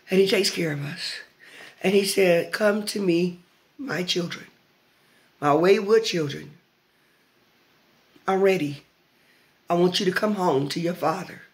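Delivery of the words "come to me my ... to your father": tender call. Acted. Voices God calling his children home.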